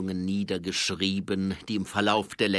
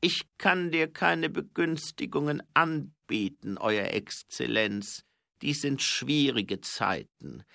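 somewhat louder, measured royal voice; etwas lauter; 6 semitones higher, 5 dB louder, slower than usual. A narrator's reading. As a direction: raise the voice a little, slow and formal. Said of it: "etwas lauter sagte er". (etwas lauter, gemessen und förmlich)

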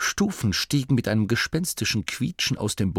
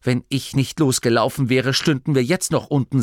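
sharp; 4 semitones higher, 4 dB louder than usual. Acted. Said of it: "sagte Grimma scharf".

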